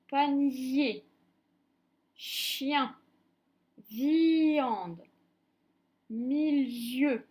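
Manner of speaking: "panier, chien, viande, milieu", each i stretched out; word by word, blow a long i before the last vowel; prolonged I. Shown as a demonstration. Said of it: "notre I tire un peu en longueur". (« panier, chien, viande, milieu », le i soufflé et allongé)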